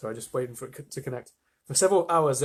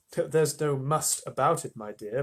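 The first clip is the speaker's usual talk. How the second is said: gently. Acted. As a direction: ease her down kindly. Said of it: "Mister Bucket said gently".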